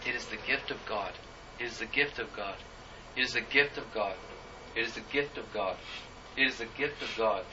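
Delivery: hushed phrase repeated with pauses between; imitated quiet repetition. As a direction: softly repeat it, pausing each time. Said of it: "she kept doing that".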